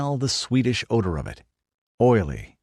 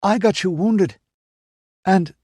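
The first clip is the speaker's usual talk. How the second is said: bursting out; 11 semitones higher, 5 dB louder than usual. Acted. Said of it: "as if a boil had burst".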